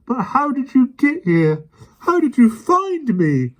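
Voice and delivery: high, slow, loud eager questions; eager demand. A narrator's reading. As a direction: press him eagerly. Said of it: "demanded the second policeman".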